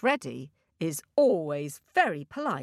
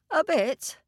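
cartoon princess; 8 semitones higher than usual. Princess tearful.

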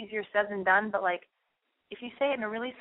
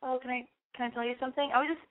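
soft and shy; 5 semitones higher, faster than usual. Pretend. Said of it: "looking in his eyes and go".

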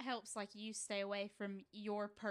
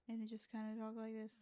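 soft imitation of a quiet talker; really quiet; 8 dB quieter than usual. Player showing how a friend's character talks, really quiet. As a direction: drop to a hushed murmur. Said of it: "He'll talk really quietly".

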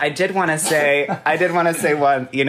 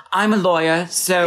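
Nicole Kidman; 6 semitones higher than usual. Retold or imitated. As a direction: imitate a TV drama line, pitched up. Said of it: "Nicole Kidman be like".

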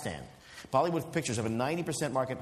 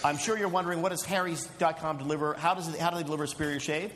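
measured sponsor read. Acted. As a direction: read the ad copy straight.

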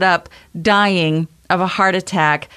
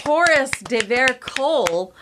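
announcer voice; 5 semitones higher than usual. Pretend. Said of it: "announcing a guest".

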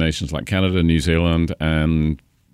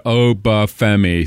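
Obafemi slow, all four syllables spelled out; announcer relishing a long name; savoring syllables; 3 semitones higher, 3 dB louder, slower than usual. Shown as a demonstration. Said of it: "four syllables".

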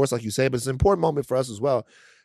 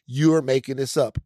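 dismissive doubters; 3 semitones lower, slower than usual. Retold or imitated. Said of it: "and people go".

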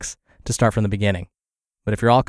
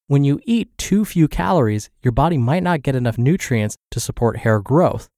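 measured, evenly paced blog narration; article read-aloud. Acted. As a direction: read the article out clearly, pausing between points. Reads a health blog post aloud.

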